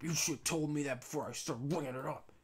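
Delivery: a mock irritated snap at a customer. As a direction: imitate a short-tempered clerk snapping back. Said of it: "he'd just snap at me".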